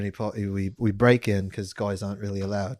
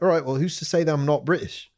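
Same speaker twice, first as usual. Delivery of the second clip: put-on British accent; 4 semitones higher than usual. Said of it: "Talked to him in a British accent".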